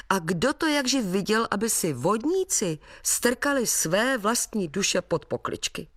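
the father soothes his son about souls and the devil; comforting father. Acted.

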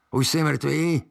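sly witch checking her victim. Acted. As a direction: prod him like a sly witch. Witch asks the boy.

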